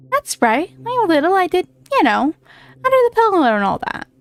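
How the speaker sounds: lightly put-on cocky fairy; a hint of a brash fairy calling out; Tooth Fairy voice. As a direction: play a pushy little fairy. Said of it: "I'm giving him that kind of voice".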